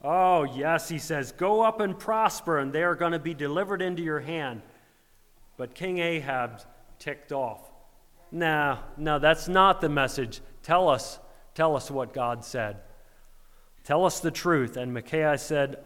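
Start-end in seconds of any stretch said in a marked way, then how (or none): 0.0-4.6 mock-cheerful sarcasm, pitched up. Prophet mocking the king with fake approval. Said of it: "And he mocks him". 8.3-14.8 mild mock anger, louder insistence; ticked off. King Ahab ticked off at the prophet, louder.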